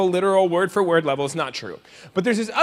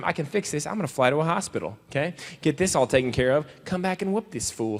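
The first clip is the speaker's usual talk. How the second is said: wounded inner monologue; 3 semitones lower, 6 dB quieter than usual. Pretend. Wounded hero's quiet inner monologue.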